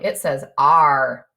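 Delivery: a low, slow pirate "R"; pirate sound. Shown as a demonstration. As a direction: growl "R" like a pirate, drawn out slow. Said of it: "A R is the pirate sound".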